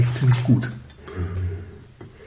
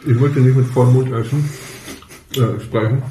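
talking with food in mouth; mouth full; 2 semitones higher than usual. Real, not acted. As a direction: speak through a mouthful of bread. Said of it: "schmatze ich aber die ganze Zeit nur".

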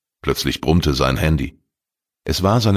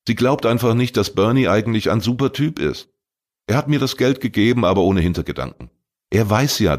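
put-on higher, quicker young voice, defensive; a defensive teen talking himself up; teenage boy Arne; 6 semitones higher than usual. Arne defends Bernie to Glattberg, higher youthful voice.

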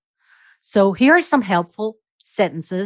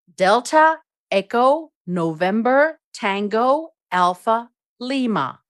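each code word said on its own, set apart; spelling out dental; 2 semitones higher, slower than usual. Shown as a demonstration. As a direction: spell Delta, Echo, November, Tango, Alpha, Lima word by word. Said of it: "You would spell dental like this".

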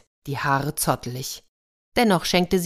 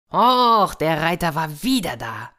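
excited brothers; 5 dB louder than usual. Acted. Brothers come home amazed by the rider, excited burst. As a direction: blurt it out, thrilled by the news.

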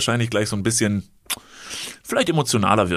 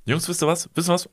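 quoting the stranger; 7 semitones higher than usual. Retold or imitated.

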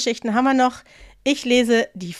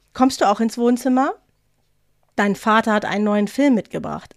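calm, even reading of a family story. Acted. Host reading a listener's story on air, steady narration. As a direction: read it out like a radio storyteller.

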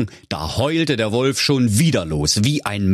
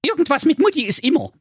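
owl doctor voice; faster than usual. A narrator's reading. Owl sums up.

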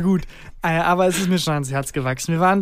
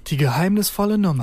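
private radio announcer. Pretend. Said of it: "was ich versuche zu parodieren".

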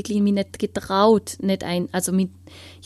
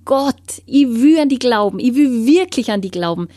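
louder, higher pleading plea to God; retold crying out to God; 3 semitones higher, 5 dB louder than usual. Teenager crying out to God at night for a sign, loud pleading. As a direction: beg God for proof, pushing the voice up. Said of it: "jeden Abend hab ich geschrien".

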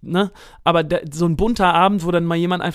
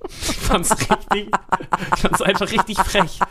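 laughing; 2 semitones higher than usual. Real, not acted. Laughing over the cheeky performers.

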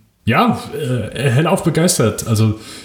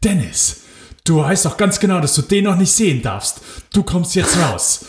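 higher, scolding mother's call; mom calling out; 7 semitones higher than usual. Retold or imitated. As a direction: call him out of the cinema, higher and stern. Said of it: "und sagt ganz laut". (Mutter ruft ihren Sohn streng und laut aus dem Kino, höher)

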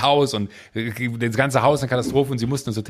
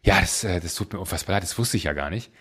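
sympathetic; 6 semitones lower, 4 dB quieter than usual. Retold or imitated. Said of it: "Dann hat sie gesagt".

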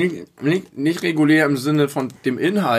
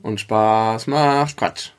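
langsam betont; much slower than usual. Shown as a demonstration. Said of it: "die phonetische Komponente".

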